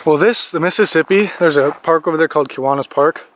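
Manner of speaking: winded after running; breathless from a run in the cold; out of breath. Real, not acted. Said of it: "Sorry, I'm out of breath".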